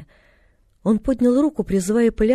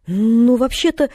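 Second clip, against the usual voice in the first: drawn-out, higher, hesitant opening; slightly doubtful; 4 semitones higher, 6 dB louder, slower than usual. A narrator's reading. Girl eyeing the confused man, a little doubtful. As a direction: stretch it with a touch of doubt. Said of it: "с некоторым оттенком сомнения".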